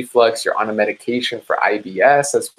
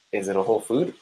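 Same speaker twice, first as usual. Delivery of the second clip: quieter repeat; 2 semitones lower, 6 dB quieter, faster than usual. Shown as a demonstration. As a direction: ask it again, pulled back. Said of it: "this goes back to my question".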